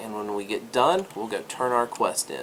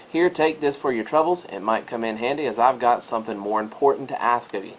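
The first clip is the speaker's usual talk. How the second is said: lightly played Scottish dwarf quest giver; Scottish dwarf accent. Dwarf handing a player a reward, Scottish accent. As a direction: give it a touch of Scottish brogue. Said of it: "all dwarves have a Scottish accent".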